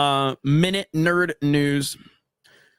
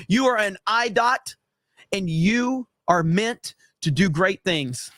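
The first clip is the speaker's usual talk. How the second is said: pitched up high, hammed-up rousing pep talk, slowing at the end; Kamala Harris pep talk; 4 semitones higher than usual. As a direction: pump him up like an over-eager motivational coach.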